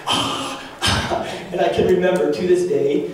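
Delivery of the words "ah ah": half-hearted "aah" of protest; imitated yell. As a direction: act out a child's yelling. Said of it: "I am just yelling".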